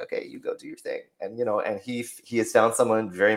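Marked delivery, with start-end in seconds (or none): 0.0-1.0 breathy near-whisper, dropping the voice; whispered aside. Retold or imitated. To her husband, letting him go: soft whisper. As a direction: let him go with a hushed shrug. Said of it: "And so it's like".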